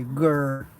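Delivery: growl. Shown as a demonstration.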